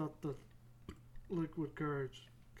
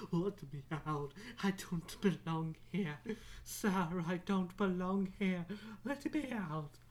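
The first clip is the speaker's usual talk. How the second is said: hammed-up plea to be released; mock pleading. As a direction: plead theatrically, rising on the last cry. Acted plea, trapped on bus.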